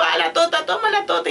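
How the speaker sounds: put-on parent copying baby talk. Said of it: "en vez de pelota le digo".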